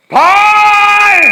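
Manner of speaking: long, stretched, very high shout; frantic shout. Acted. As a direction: wail the name with all your lungs. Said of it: "목청이 워낙 커가지고 ... 마음껏 못 하는데".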